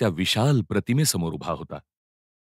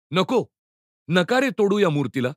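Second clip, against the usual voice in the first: pleading cry out; 8 semitones higher than usual. Acted. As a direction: cry out to stop them. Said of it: "Mihir ओरडला". (उंच स्वरात ओरडून विनवणी)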